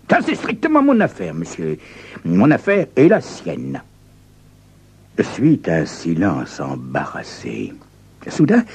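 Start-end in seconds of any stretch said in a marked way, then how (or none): 0.1-3.8 haughty visitor. Acted.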